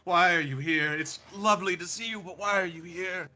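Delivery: quick, flustered and polite. Acted. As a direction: cover the shock politely. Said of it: "starts to realize what he's done".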